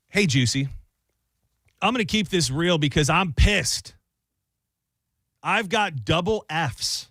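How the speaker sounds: slow, punchy read of an exasperated letter; lightly dramatized advice-column letter. Acted. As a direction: read the fed-up writer's letter aloud, pausing between points. Reads out a listener's letter.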